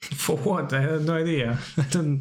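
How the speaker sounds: laughing. Real, not acted. Streamer baffled by a Hall of Famer, laughing. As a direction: laugh through the words. Amused at not knowing.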